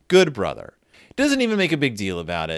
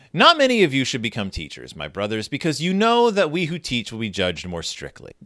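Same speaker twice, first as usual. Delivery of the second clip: scripture reading. A narrator's reading. Reads Bible passage aloud.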